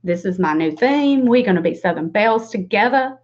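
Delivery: put-on playful Southern belle accent. Trying out a Southern belle act on viewers, Southern accent. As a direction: play at being a Southern belle. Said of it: "be a Southern belle and be like".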